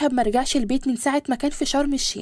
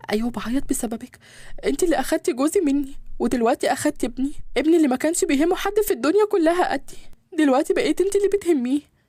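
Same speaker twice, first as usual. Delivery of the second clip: tearful reproach. Acted. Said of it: "وبتعيط".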